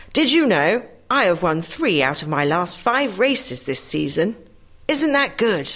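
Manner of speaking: a touch of boasting, lifting on Isn't; proud. Acted. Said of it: "The first horse says rather proudly".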